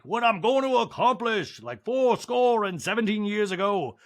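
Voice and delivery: slow, grand mock speech; gladiator speech. Recapper mocking Sutton's speech, slow and grand. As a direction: orate it like a gladiator. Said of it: "like a gladiator speech".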